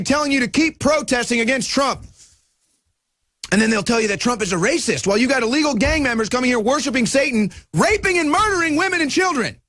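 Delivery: fast, high, indignant rant; ticked off. Real, not acted. Host apologizing to viewers while still worked up. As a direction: keep ranting, pitch up and pushing fast. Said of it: "I get ticked off".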